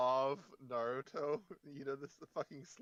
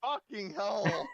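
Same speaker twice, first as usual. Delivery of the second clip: loud exclamation; 7 semitones higher, 5 dB louder, much slower than usual. Real, not acted. Shocked at a clicked spoiler.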